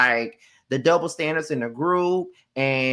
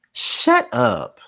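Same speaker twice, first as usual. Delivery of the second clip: mock yell; 6 semitones higher than usual. Real, not acted. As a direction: bark it at the screen. Repeated shut up at Drew.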